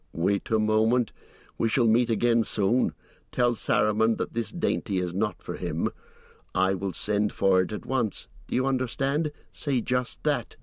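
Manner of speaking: hobbit quoting the cold voice that questioned him; retold dark lord's message. Hobbit repeating the dark lord's orders, lightly voiced and cold.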